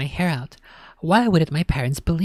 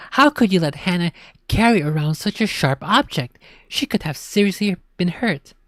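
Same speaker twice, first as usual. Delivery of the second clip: raised scolding mom voice; angry scolding; 4 semitones higher, 4 dB louder than usual. Acted. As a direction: tell him off, upset.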